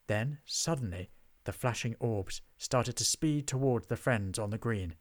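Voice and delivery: ordinary delivery, nothing marked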